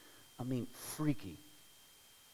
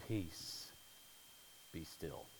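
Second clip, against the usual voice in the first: soft, low and hushed; calm the storm with a low hush; hushed command; 8 semitones lower, 9 dB quieter, slower than usual. Retold or imitated. Jesus calms the storm, quoted.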